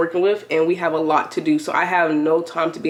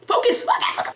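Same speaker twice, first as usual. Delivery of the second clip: laughing. Real, not acted. Laughing while refocusing herself.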